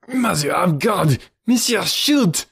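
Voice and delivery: high, drawn-out cry of terror; horrified scream. A narrator's reading. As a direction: beg him wildly to shoot, voice leaping up. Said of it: "he screamed".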